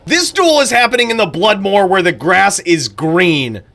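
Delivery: a light touch of an excited announcer; mock hype commentary. Shown as a demonstration. Streamer showing how to hype a duel, mildly excited. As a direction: make obvious facts sound thrilling. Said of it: "state the obvious and make it sound really exciting".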